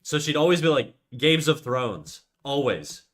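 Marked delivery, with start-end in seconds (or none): 1.2-2.2 put-on slow Games of Thrones in a light French accent; mom's French accent. Mom mangling the show title, light French accent. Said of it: "a French accent when she speaks".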